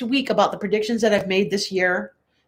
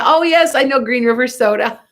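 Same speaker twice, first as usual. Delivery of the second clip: delighted recognition; 3 semitones higher, 5 dB louder than usual. Real, not acted. Recognizes soda named by a viewer.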